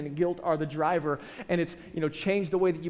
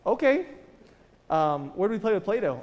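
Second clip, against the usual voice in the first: knowing dad; 2 semitones higher, 3 dB louder than usual. Retold or imitated. Dad quizzing son.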